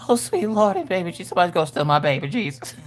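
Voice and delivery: fast, hammed-up panicked prayer; mock terrified mother. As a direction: pray frantically, half joking. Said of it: "I'm like".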